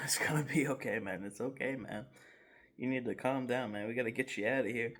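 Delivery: hushed reassurance, ending fast; calm him down gently, then hurry; soothing friend. Retold or imitated. Friend soothing him while laughing.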